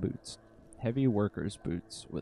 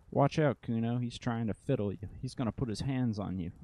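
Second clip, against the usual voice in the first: voice behind the fence; 3 semitones higher than usual. Acted. Voice behind fence warns Kuno.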